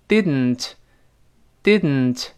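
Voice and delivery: "didn't" with the d released through the nose; tongue stays up, "didn't" hums out through the nose; nasal plosion. Shown as a demonstration. Teacher repeats the sound for learners, "didn't" with nasal release. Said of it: "从鼻子出气儿".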